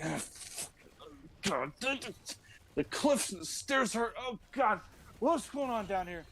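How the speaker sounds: winded Moses. Acted. Moses tired after stairs.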